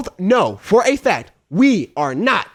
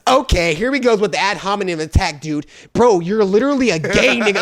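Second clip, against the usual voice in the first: louder, higher mock debate jab; hammed-up insult; mock heated insult; 4 semitones higher, 3 dB louder than usual. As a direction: imitate a debate gone sour. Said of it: "devolves into being like".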